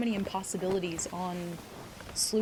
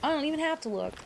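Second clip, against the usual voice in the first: smug retort; 5 semitones higher than usual. Retold or imitated. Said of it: "I'm like".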